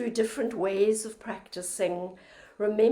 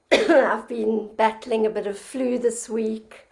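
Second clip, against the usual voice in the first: hoarse from the flu; rough, croaky throat; 4 dB louder than usual. Real, not acted. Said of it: "excuse my croaky voice".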